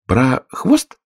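puzzled rising question on хвост; bewildered echo, rising at the end. A narrator's reading. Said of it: "повторила Алиса с недоумением".

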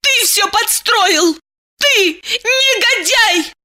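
high, slow, outraged yelling; furious woman. A narrator's reading. Diana accuses Eliseev, high and furious. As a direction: spit it out in rage.

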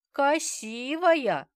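put-on high, very slow child's voice; a little boy happily agreeing; eager toddler. Toddler eagerly echoing grandmother about his mother, high and drawn out. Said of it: "охотно подтвердил малыш".

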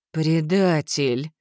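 very slow growled accusation. Acted. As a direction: drag the word out in a growl. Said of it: "прорычала Валерия Лисова".

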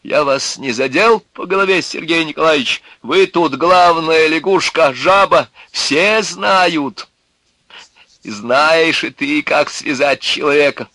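high, loud defiant tirade; mocking outburst, sliding into insults; exclaiming. A narrator's reading. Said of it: "воскликнул он".

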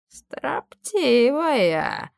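very slow, high, drawn-out word. A narrator's reading. Aron drawling at the defiant slave girl, very slow. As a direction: stretch the word out mockingly. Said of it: "протянул Арон".

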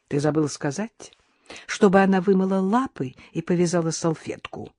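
ordinary delivery

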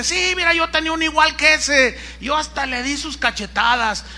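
high, eager gossip voice; gossiping commenter. Retold or imitated. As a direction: egg her on like a busybody. Another gossip joins in.

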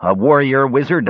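put-on narrated astonished old elf; exclaiming. A narrator's reading. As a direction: exclaim it in wonder. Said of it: "Risha exclaimed".

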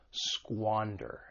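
"squander" with the stress on SQUAN; stress on first syllable. Shown as a demonstration. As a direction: say "squander" as SQUAN-der, second syllable light. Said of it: "The stress is on that first syllable".

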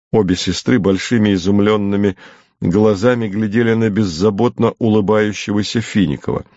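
plain reading voice

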